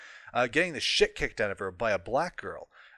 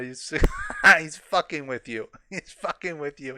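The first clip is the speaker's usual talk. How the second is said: laughing mockery; 4 semitones higher, 6 dB louder than usual. Real, not acted. Laughing at the author being trolled.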